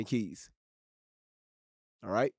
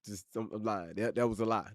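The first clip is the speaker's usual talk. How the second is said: much softer, lower, sheepish; sheepish admission; 6 semitones lower, 7 dB quieter than usual. Real, not acted. Streamer admitting his own mistake, soft and sheepish. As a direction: own up quietly to the chat.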